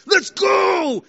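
high, loud celebration yell; shout of triumph. Acted. Son scoring in basketball, triumphant shout. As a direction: yell it like you just scored. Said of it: "it's like a shout of triumph".

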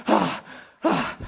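winded heaving breaths; acted heaving gasps. Preacher miming the exhausted rescuer, heaving gasps. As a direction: pant as if just out of the water. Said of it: "like, heaving and coughing".

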